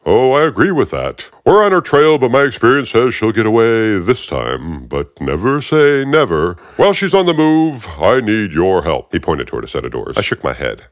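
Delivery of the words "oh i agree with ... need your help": higher, smug and needling; the smug agent's grating voice; aggravating Fishburne voice. Acted. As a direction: talk down to him like you own the room. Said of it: "that really aggravating voice".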